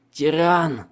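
loud furious shout. Acted. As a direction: hurl it at him. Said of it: "закричал пленник".

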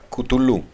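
Κουτουλού as "koo-too-LOO", final stress; Greek abbreviation reading. Shown as a demonstration. Lecturer repeating the familiar abbreviation, Greek pronunciation. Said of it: "την ελληνική συντομογραφία".

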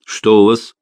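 stern. A narrator's reading. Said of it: "строгим голосом вопросил нотариус".

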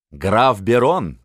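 slow, crisply spaced name; clear articulation. A narrator's reading. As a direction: pronounce it distinctly, drawn out. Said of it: "чётко произнёс Миних". (чётко, медленно, с расстановкой)

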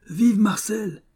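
high-pitched squawked bird voice; parrot cry. A narrator's reading. Startled parrot cheers on seeing a stranger, high cry. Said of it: "cria le perroquet".

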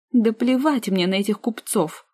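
stamping with indignation; indignant. Acted. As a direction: spit it out in outrage. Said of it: "От негодования она даже ногами затопала".

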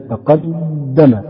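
تقدم said very slowly, each syllable drawn out; تقدم pronounced slowly and carefully, syllable by syllable; as you pronounce it. Shown as a demonstration. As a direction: spell out تقدم slowly, like reading the scale. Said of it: "مثلما تنطق تزن".

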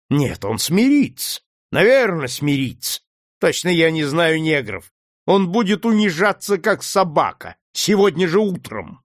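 mocking the slave's spirit; sneering master. A narrator's reading. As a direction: cruel planter, lightly voiced. Legree sneering at Cassy.

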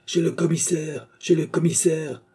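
high-pitched narrated call from a crowd; crying out. A narrator's reading. One voice in the crowd, crying out. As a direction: call it out high, without full volume. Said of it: "cria une voix".

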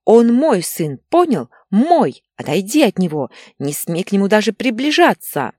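high, loud, possessive outburst; hysterical. A narrator's reading. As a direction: scream protectively for your son. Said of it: "У Инны началась истерика". (истеричный крик матери)

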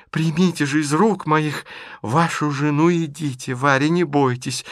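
stage-manage the reunion; theatrical insistence. Acted. (властно и театрально)

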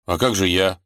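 usual speaking voice

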